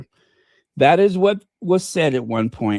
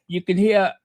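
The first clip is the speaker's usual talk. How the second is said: higher-pitched, badly faked English accent; 4 semitones higher than usual. Host promising viewers BBC news, in mock English accent. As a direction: put on a terrible English accent. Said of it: "I do the worst English accent".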